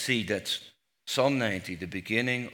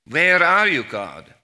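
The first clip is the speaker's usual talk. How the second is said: a loud, higher outcry to God; anguished cry; 7 semitones higher, 12 dB louder than usual. Acted. Preacher crying out to an absent God with a loud anguish. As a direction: cry it out as if God has gone missing. Preacher cries out God's question.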